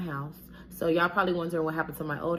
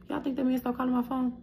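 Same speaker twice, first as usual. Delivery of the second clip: sarcastic rhetorical; 8 semitones higher than usual. Real, not acted. Rhetorical question to viewers.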